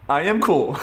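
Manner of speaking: a laugh breaking into the quote; amused, half laughing. Retold or imitated. Quoting Robert's reply, half laughing.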